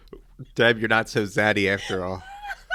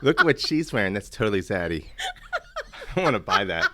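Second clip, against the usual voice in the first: ironic zoomer. Pretend. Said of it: "I want you to use it in sentences like that".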